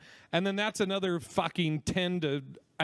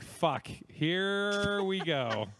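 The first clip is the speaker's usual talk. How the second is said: long drawn-out weary groan of words; exasperated, dragged-out resignation; mock dread; much slower than usual. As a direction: stretch it slowly, as if bracing for an ordeal. Resigned reaction on hearing the rep.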